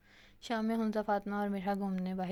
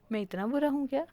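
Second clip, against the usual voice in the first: higher, louder wounded plea; hurt question; 6 semitones higher, 7 dB louder than usual. Acted. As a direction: am I really that bad, playfully hurt. (ऊँची, आहत आवाज़ में)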